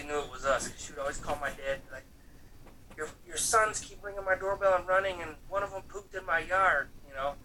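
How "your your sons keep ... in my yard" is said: higher-pitched mock indignant complaint; mad old lady. Old lady phoning dad about his sons, mock-mad complaint. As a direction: imitate an angry neighbor complaining, pitched up. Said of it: "she would be so mad".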